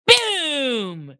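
loud, drawn-out falling boom; explosive boom. Retold or imitated. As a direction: burst out like a collision overhead. Acting out ideas colliding.

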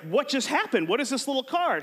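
baffled brother. Retold or imitated. Brother in the car, baffled by the card. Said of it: "my brother's like".

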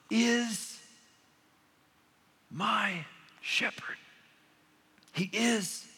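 is my shepherd, whispered slowly; slow hushed emphasis. Shown as a demonstration. Preacher to congregation, whispering is my shepherd. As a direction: drop to a breathy hush on my shepherd. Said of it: "skip over the word is".

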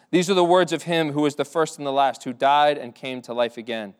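re-reading the verse with gentle solemnity; measured pulpit reading voice; scripture reading. Acted. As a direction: lift the quoted words off the page. Rereads verse aloud.

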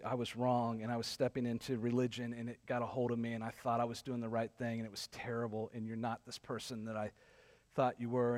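low, soft confession; subdued, humbled retelling; retold apology. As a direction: quietly voice someone admitting fault.

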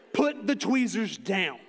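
loud, slow, drawn-out order; urgent command. Retold or imitated. Dad to son holding sharp tweezers, loud urgent command. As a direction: order the child to disarm, word by word. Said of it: "aren't good ones to shout".

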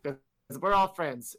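high, loud, slow goofy voice; hammed-up innocent friendliness; mock naive hero. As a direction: play him as a cheerful simpleton. Mocking Alphen's naive cheer.

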